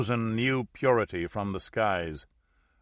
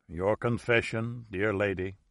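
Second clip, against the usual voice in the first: intoning priest; 3 dB quieter than usual. Acted. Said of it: "he intoned".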